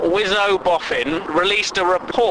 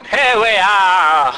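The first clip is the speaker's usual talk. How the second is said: mock teacher; 3 semitones higher, 4 dB louder, slower than usual.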